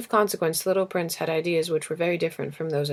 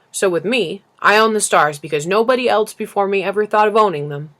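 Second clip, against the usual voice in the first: self-important businessman, pushed louder; pompous businessman, louder; 5 dB louder than usual. Acted. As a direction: lecture the child like a busy tycoon. Businessman explains ownership.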